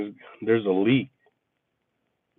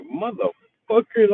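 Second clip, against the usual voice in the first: high, slow, drawn-out mock exasperation; dragged-out disbelieving swear; exasperated curse; 9 semitones higher, slower than usual. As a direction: stretch it out, fed up with everyone. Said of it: "I'm like".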